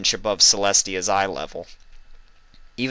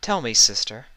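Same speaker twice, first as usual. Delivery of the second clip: gentle; 4 semitones higher than usual. A narrator's reading. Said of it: "came Celestia's gentle voice".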